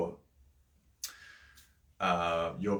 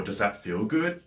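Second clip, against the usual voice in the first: raised, slow, rising question that sounds thrilling; excited question; 3 semitones higher than usual. Shown as a demonstration. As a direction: pitch it up with eager excitement, slowly. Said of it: "it makes it sound exciting".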